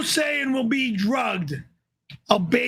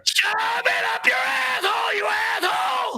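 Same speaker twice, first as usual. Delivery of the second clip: swearing tirade; 8 semitones higher than usual. Real, not acted. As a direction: bark the curses out. Raging at super chat.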